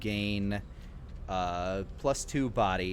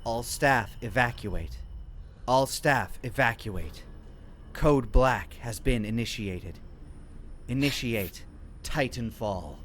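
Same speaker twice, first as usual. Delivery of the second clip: alarm announcement. Acted.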